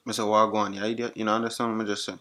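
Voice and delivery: patois repeated insistently; Jamaican accent. Acted. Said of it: "used my Jamaican accent".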